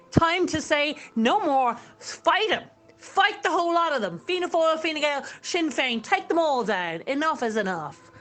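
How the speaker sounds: passionate. Real, not acted. Radio host urging listeners to fight the government, passionate. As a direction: urge them on with real passion. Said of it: "I'm very passionate about that".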